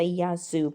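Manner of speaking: Yazoo said as the Greek greeting. Shown as a demonstration. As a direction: model Yazoo. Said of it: "So if I met you, I'd say".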